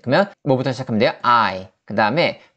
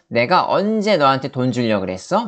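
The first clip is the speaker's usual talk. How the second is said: ordinary delivery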